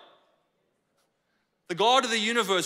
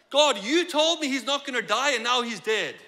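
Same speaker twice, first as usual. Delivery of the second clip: mildly exasperated complaint, raised at first; annoyed at God; 3 semitones higher, 4 dB louder than usual. Acted. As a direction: lodge an acted grievance with God. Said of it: "I would be annoyed at God".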